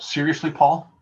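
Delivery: mock-exasperated questioning, half-joking; talking back to Paul in your head, incredulous; incredulous inner voice. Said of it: "I think to myself".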